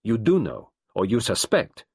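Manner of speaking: wife defiant, detective insisting, both loud; defiant anger. A narrator's reading. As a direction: flash back at him. Angry final clash.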